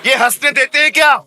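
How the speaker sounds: complaining auntie. Retold or imitated. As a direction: whine it like a fed-up auntie. Auntie answers how can I laugh.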